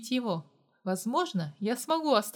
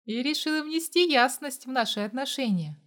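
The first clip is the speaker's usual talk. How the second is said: usual speaking voice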